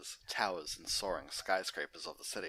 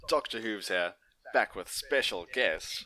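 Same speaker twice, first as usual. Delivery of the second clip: bright, upbeat pony host; cheery character host greeting; Doctor Hooves voice; 3 semitones higher, 8 dB louder than usual. Acted.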